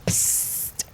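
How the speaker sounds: breathy stage whisper; sneaky hushed call. Acted. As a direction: psst to get someone's attention. Calling someone secretly.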